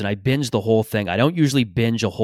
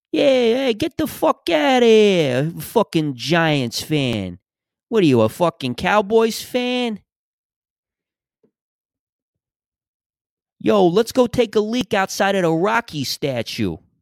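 very high, slow, drawn-out put-on New York accent; 9 semitones higher than usual. Mocking how Philadelphia characters sound in movies, mock New York accent. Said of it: "They sound like that pretty much".

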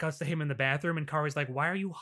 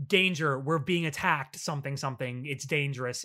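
normal talking voice

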